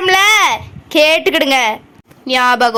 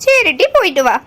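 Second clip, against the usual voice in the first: grudging, subdued goodbye; unsmiling send-off; 3 semitones lower than usual. Acted. Mother told to smile at departing daughter, still unsmiling. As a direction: let her go without any cheer. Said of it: "நல்லா சிரிச்ச மூஞ்சியா சொல்லு".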